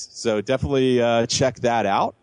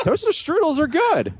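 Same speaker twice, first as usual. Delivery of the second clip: laughing. Real, not acted. Defending it while laughing.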